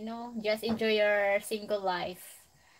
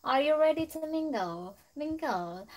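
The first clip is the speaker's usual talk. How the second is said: playful put-on English accent, higher at first; 4 semitones higher than usual. Shown as a demonstration. Streamer teasing a friend about mingling, in a put-on English accent. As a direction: repeat it in a mock English accent. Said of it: "lumalabas na naman yung ibang ano ko ba, salita ko ba".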